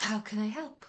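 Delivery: whispering otherworldly entity voice. Voicing an entity rising as smoke from a rubbed lamp: whispering lamp entity. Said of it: "a kind of whisper of a".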